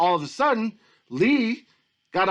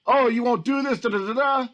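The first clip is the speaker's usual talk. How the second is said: higher-pitched mocking huff; pissy mimicry, tossed off in a higher voice; 4 semitones higher than usual. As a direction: imitate someone getting all pissy. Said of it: "He gets all pissy like a little woman".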